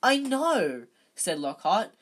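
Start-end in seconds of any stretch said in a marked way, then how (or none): 0.0-0.9 high, loud, gushing agreement; loud boasting. A narrator's reading. Lockhart delighted by his own success, loud boasting. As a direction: crow it at full volume.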